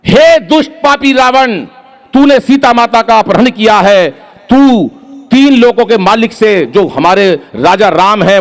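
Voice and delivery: booming stage priest prompting Angad; pandit ji reciting dialogue. Acted. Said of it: "तो पंडित जी क्या बोले".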